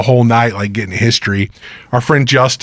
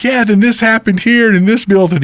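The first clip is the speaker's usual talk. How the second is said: imitated local storyteller; 11 semitones higher than usual. Imitating Bob telling local history.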